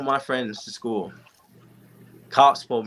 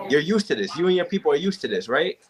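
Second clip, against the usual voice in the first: a lightly raised, sneering cop voice; mocking racist cop; 4 semitones higher than usual. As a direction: mimic the cop's smug taunt, a touch higher. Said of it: "he finally said the racist".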